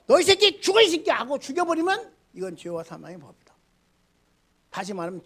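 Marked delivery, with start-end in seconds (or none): 0.1-1.1 높고 크게 내지르는 욕설; 상대를 죽일 듯 호통치듯. Retold or imitated. 정죄하며 죽이는 사람 흉내. (정죄하는 사람을 흉내 내는 분노의 고함)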